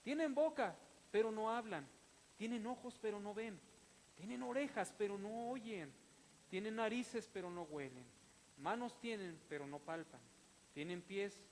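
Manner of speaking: rising, emphatic scripture reading with hammered lines; fervent pulpit reading of the psalm; preaching a psalm. Acted. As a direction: proclaim each line, punching pero.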